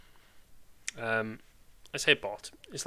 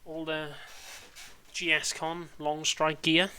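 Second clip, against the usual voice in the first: showman reveal; 6 semitones higher, slower than usual. Pretend. Shows off merch.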